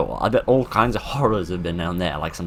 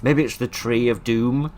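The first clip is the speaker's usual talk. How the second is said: mock ominous; 4 semitones higher, slower than usual. Spooky joke about the tree.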